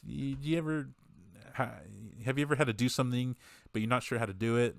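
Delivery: halting start, then blurting it out as if nervous. Retold or imitated. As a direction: imitate nerves with false starts and pauses. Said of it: "he's, like, nervous".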